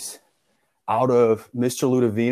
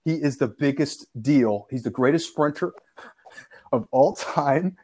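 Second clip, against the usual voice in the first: mock hard sell; 2 semitones higher than usual. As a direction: stretch it out like the greatest claim ever. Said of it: "I sell John Holmes hard".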